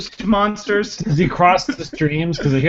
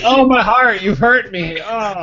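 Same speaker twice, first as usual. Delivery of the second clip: mock wounded; 4 semitones higher, 4 dB louder, slower than usual. Co-host mock-acts being wounded.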